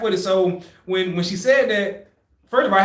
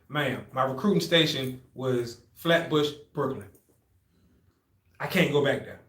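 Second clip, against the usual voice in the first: low, slow, soft confession; hushed plea; 4 semitones lower, 5 dB quieter, slower than usual. Retold or imitated. Recruit confiding in examiner about recruiting station, hushed. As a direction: confide it gravely, trailing down.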